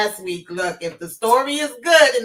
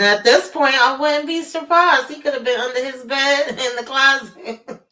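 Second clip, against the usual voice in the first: higher voice breaking into laughter; amused; 5 semitones higher, 3 dB louder than usual. Real, not acted. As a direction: crack up mid-sentence. Joking about hiding places.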